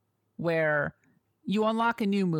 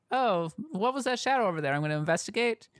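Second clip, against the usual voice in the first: oblivious guard voice; 3 semitones higher than usual. Retold or imitated. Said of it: "as opposed to".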